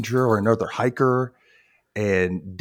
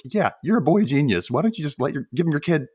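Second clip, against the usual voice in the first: higher-pitched, sarcastic praise; exaggerated sarcastic ribbing; mock sarcasm; 6 semitones higher than usual. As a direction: needle the clueless kid playfully. Sarcastic reply to naive boy.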